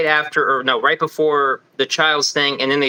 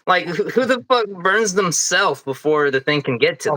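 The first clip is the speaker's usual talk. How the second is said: higher-pitched, stammering disbelief; incredulous; 4 semitones higher than usual. Real, not acted. Fan debating a film theory with co-host, incredulous. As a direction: scoff at how absurd it is. Scoffing at implausible film line.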